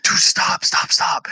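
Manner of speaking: urgent hushed whisper. Retold or imitated. Friend at lunch urging him to stop, whispered.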